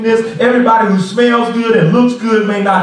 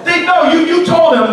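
exasperated; 8 semitones higher, 3 dB louder than usual. Retold or imitated. Congregant scolding family on the phone.

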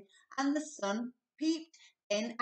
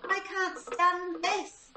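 high, slow, complaining; fed-up Mister Bear; 10 semitones higher, 4 dB louder, slower than usual. A narrator's reading. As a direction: drag it out like a sleepless father. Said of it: "said Mister Bear".

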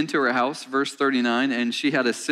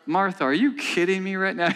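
higher, incredulous retort, half-joking; mock exasperation; 5 semitones higher than usual. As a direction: tease Martha the way the preacher would have. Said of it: "I would have said something else".

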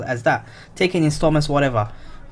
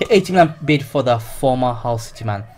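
hiccuping; 3 dB louder than usual. Real, not acted. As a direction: still hiccuping. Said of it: "sorry, I'm just hiccuping".

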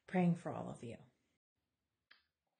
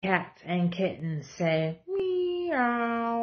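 slow and louder, stretched kitty meow; drawn-out meow; 5 semitones higher, 9 dB louder, much slower than usual. Acted. Mom reading the cats' line to her kids, slow stretched meow. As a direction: draw the meow out like a cat.

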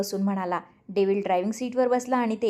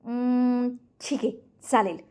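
amused agreement; 4 semitones higher than usual. A narrator's reading. Renu agreeing to the plan, mildly amused. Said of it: "रेणू हसत म्हणाली".

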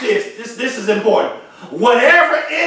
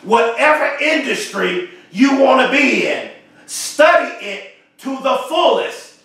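slow and deliberate, each point spaced out; said slowly. Shown as a demonstration. Speaker to viewers, repeating the key advice, slowly. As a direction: lay it out slowly so they catch it. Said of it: "I want to say this slowly 'cause you gotta catch this".

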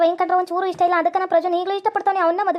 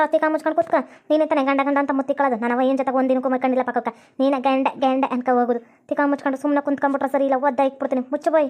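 threatening sister; 5 semitones lower than usual. Acted. Sister threatening to expose her elder sister, low scolding voice.

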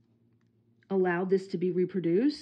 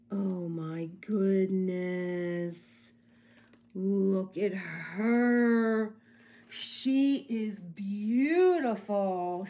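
tender admiration; much slower than usual. Real, not acted. Admiring the painting.

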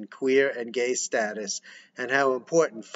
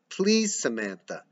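begging. Acted. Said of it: "Josh, begging".

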